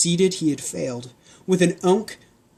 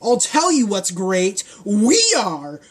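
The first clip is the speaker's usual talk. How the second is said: a hint of a gloating guard; lightly voiced candy guard calling out; 4 semitones higher than usual. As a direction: taunt them from a distance. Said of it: "called out the candy guards".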